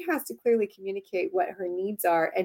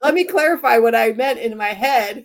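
lightly sarcastic sweet apology; a mock-sweet sorry with a laugh in it; teasing apology; 3 semitones higher, 3 dB louder than usual. Wife teasing her husband David about telepathy, playful sarcasm. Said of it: "I'll be like".

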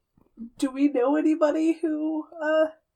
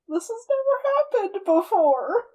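higher-pitched startled disbelief; 6 semitones higher than usual. Acted. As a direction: stare at them, baffled, pitch lifted. Player voices character's startled reaction.

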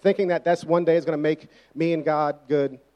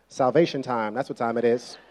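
1 mock deep preachy; 5 semitones lower than usual. Pushy witnessing church member.

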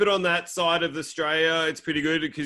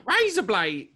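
higher, exaggerated Australian "razor blade"; attempted Australian accent; 6 semitones higher, slower than usual. Shown as a demonstration. Australian trying his own accent, exaggerated Australian accent. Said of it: "can't do my own accent".

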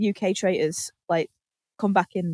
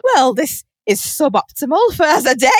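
dry remark through a laugh; deadpan it while cracking up; mock stiff-upper-lip through laughter; laughing understatement; 3 semitones higher, 4 dB louder than usual. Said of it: "he's kind of like".

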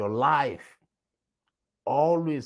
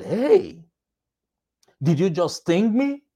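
high, loud cry of shock; a frog who can't believe it was stung; 6 semitones higher, 4 dB louder than usual. Acted.

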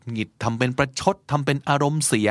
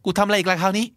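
exasperated; 8 semitones higher than usual. Retold or imitated. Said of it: "ก็ เอ้า".

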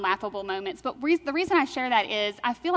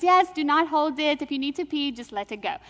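put-on Indian accent; 4 semitones higher than usual. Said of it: "she, with an Indian accent".

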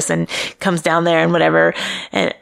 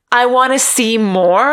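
whiny plea; 3 semitones higher, slower than usual. Retold or imitated. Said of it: "I'm all like".

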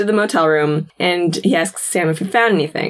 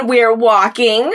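herd the group along like a prim guide; fussy docent; 3 semitones higher than usual. Retold or imitated. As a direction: docent hurrying the group through the museum, sing-song. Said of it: "And she's like".

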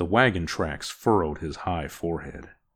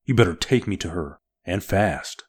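fast, louder curt command; snapped; 2 semitones higher, 4 dB louder than usual. Acted. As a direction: bark the order quickly. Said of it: "snapped Orn".

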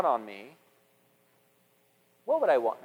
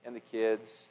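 soft apology; 3 semitones lower than usual. Retold or imitated. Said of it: "look at her and say".

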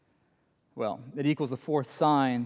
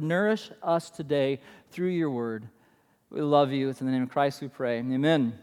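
prayer. Acted. Opening prayer before sermon.

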